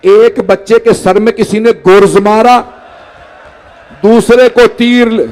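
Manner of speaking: chanted, grieving storyteller's cadence; mourning recitation. Acted. Preacher recites the martyrdom to the gathering, in a mourning chant. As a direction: recite the tragedy to move the mourners.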